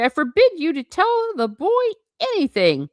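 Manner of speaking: high-pitched, indignant British forbidding; British accent. A narrator's reading. Uncle Vernon forbidding Hagrid, blustering British accent. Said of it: "all in a British accent".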